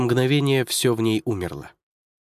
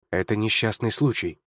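plain reading voice

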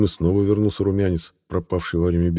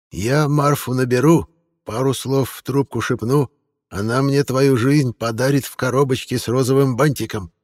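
put-on menacing old woman; 7 semitones higher than usual. A narrator's reading. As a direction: sneer at her like a stern old lady. Old woman threatens witch.

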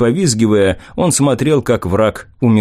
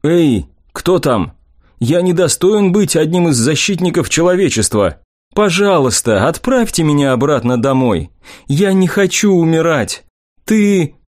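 higher, panicked begging; frightened pleading; 5 semitones higher than usual. Acted. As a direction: plead for your life in terror. Naked man begging for life.

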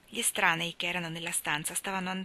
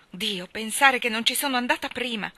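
loud, raised exclamation of regret; distressed cry; 4 semitones higher, 7 dB louder than usual. A narrator's reading. Mally regretting she did not go earlier, crying out. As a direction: exclaim it, reproaching yourself. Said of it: "gridò".

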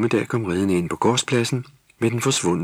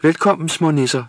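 smiling; 10 semitones higher, 6 dB louder than usual. A narrator's reading. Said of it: "smilede nissemor".

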